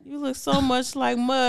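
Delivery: soft, slow, drawn-out fondness; quietly wistful, lightly acted; imitated wistful sadness. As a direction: mimic a misty-eyed relative, slowly. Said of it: "they just get all sad".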